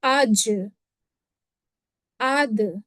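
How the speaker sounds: आज and आद with the final consonant bounced, echoing back; qalqala echo. Shown as a demonstration. Teacher demonstrating qalqala on jeem and daal. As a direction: let the last sound of आद rebound. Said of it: "ऐसे आवाज होगी".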